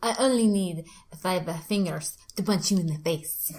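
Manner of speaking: put-on light Spanish accent on the tough line; tough-guy line in a Spanish accent. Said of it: "I like your, uh, Spanish accent".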